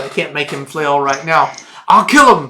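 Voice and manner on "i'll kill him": loud, roaring giant threat; screaming threat. Acted. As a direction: bellow it like a raging brute. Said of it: "He starts screaming and flailing".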